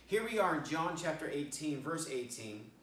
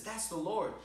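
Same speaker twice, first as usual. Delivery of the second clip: higher, with a lift on Lord; excited recognition; 5 semitones higher than usual. Acted. Peter in the boat recognizes Jesus, excited and higher. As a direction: exclaim it, suddenly sure.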